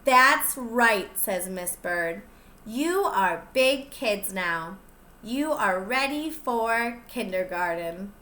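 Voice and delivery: lively storybook reading; picture book read-aloud voice; reading to children. Acted. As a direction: read it out to the little ones, bright and clear. Teacher reads picture book aloud.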